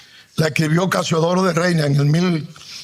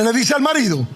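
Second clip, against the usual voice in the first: ordinary delivery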